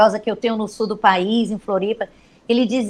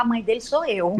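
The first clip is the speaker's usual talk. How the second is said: laughing. Real, not acted. Punchline said laughing.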